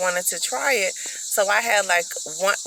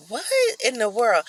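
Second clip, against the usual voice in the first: higher-pitched mock disbelief; stunned reaction, pitched up; retold bafflement; 5 semitones higher than usual. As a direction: act out being taken aback. Acts out her baffled reaction.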